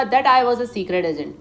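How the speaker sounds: a hint of Ausable, slow; Ausable speaking. Ausable telling Fowler about himself, lightly voiced. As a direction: say it slowly as Ausable. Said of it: "अब ऑसिबल कह रहा है".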